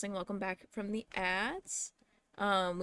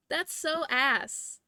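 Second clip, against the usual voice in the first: drawn-out laughing groan, slow; slow laughing whine; 5 semitones higher, much slower than usual. Real, not acted. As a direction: laugh it out slowly in mock despair. Laughing at broken gift.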